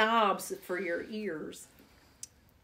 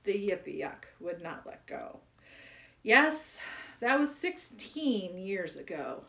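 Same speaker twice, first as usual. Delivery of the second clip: poem reading. Acted. Reading the Yippee Yuck poem to children, storytelling. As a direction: tell it like a sad old man's tale.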